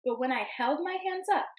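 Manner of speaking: gentle storybook read-aloud; storybook voice for the class; reading to children. Acted. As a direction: read it like story time for little kids. Teacher reads picture book aloud.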